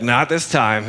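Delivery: put-on light Southern accent. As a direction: play it as a good old boy with a Southern twang. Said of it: "that's how I read Peter".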